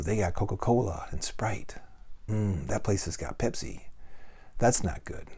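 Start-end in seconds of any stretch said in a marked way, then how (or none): 0.0-3.8 whisper. Acted. Whispered aside about drinks.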